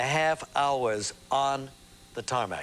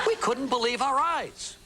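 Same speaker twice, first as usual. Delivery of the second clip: laughing; 12 semitones higher than usual. Real, not acted. Recalling the girl on campus.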